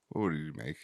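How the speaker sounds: whisper. Pretend. Whispered prompt question.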